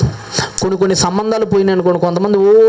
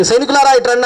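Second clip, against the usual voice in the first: calling soldiers; 5 semitones higher than usual. Retold or imitated. King summons soldiers.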